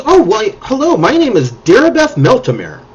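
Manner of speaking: lightly voiced flustered mage; eccentric mage voice. Mage introduces herself to the party, fluttery. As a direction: play the modest, scattered mage. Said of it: "She says".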